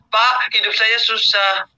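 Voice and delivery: high, drawn-out complaint about a hard life; mock lament. Audience member moans to the coach about a hard life, mock lament. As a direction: wail it slowly, imitating someone feeling hard done by. Acts out someone complaining of hardship.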